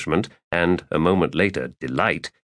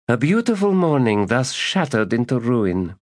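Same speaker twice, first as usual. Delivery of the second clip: lightly voiced weary lady; theatrical lament; 6 semitones higher than usual.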